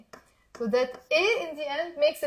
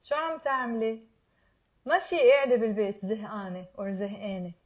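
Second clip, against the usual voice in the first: fast; 2 semitones lower, much faster than usual. Shown as a demonstration. Teacher drilling students at speed, fast. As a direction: rattle it all off quickly. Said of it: "Now I'm gonna say it faster".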